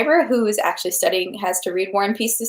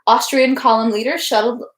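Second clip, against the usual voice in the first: steady read-aloud narration of a novel; story narration. A narrator's reading. Reading War and Peace aloud to livestream viewers, steady narration. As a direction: read the battle scene evenly to listeners.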